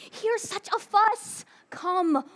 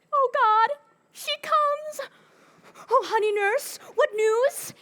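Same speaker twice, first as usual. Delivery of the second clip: eager, high, louder cry; excited; 6 semitones higher, 3 dB louder than usual. Acted. Juliet spotting the nurse coming, excited. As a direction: burst out with joy.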